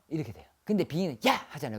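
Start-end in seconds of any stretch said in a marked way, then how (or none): 1.3-1.3 sudden, short sharp shout; startling yell. Shown as a demonstration. Shaman jolting a possessed client, startling yell. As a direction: yell out to jolt them awake. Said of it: "그러면 정신이 퍽 들어요".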